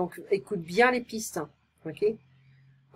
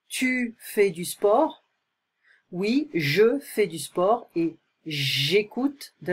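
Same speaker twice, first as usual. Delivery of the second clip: slow model reading; slower than usual. Shown as a demonstration. Teacher reads dialogue lines slowly.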